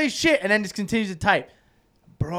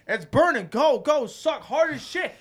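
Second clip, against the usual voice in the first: higher, louder mock urging; urgent egging on; 8 semitones higher, 5 dB louder, slower than usual. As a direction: urge him on, rising in pitch. Buddy urgently coaching him through hit.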